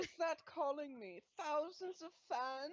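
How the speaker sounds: a hint of preening delight; self-admiring narcissist. Narcissist hearing his fans call, self-admiring. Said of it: "really into himself".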